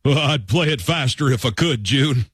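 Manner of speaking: put-on country singer voice; change your timbre into an old-time singer talking; a country singer. Host gives a clue as an actor's role, put-on singer voice. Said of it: "an impression of a role they played".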